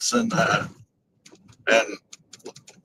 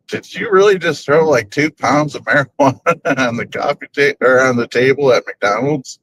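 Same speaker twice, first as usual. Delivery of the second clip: amused, incredulous question; mock disbelief. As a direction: retell a stunned reaction, amused. Acted stunned reaction to friend.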